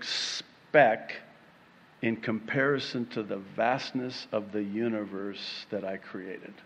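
God, gently reminding. Acted. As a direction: remind tenderly, with measured pauses. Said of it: "ever so lovingly, ever so gently".

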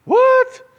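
very high, loud what; mock astonishment. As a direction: feign shock at the strange verse. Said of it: "what does that mean?".

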